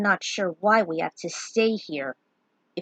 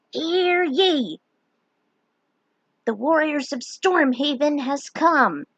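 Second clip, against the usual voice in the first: higher, louder proclaiming jester; herald's announcement; 7 semitones higher, 5 dB louder, slower than usual. A narrator's reading. Jester announcing the warriors to court, proclaiming.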